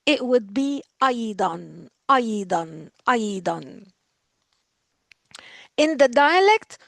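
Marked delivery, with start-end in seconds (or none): 0.1-3.8 أيضًا with a clear final -an on each; tanween on أيضًا. Shown as a demonstration. Teacher drilling أيضًا for students, each one falling. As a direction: repeat أيضًا, falling, end in "an". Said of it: "this is not optional".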